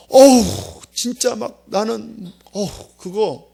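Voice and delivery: reluctant groan. Retold or imitated. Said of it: "막 이런 마음이 막 속에서 든다라니까".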